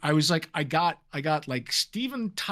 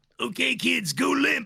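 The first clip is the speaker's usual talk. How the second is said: high, slow, creaky character voice; 8 semitones higher than usual. Recalling voicing a pirate character, doing the Django voice. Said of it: "I gave him that voice".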